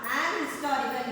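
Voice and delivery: "an historical" with a light "his"; an his-TOR-ical, weight off the first syllable; unstressed first syllable. Shown as a demonstration. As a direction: keep "his" weak in "an historical". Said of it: "first syllable is not stressed".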